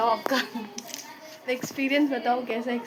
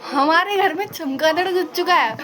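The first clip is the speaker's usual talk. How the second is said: excited; 5 semitones higher, 5 dB louder than usual. Real, not acted. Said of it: "bat in the house".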